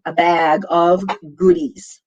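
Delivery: "bag" with a wide short a; American-style "bag"; correct short A. Shown as a demonstration. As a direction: stretch the a of "bag" as in cat. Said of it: "you don't send them a bug".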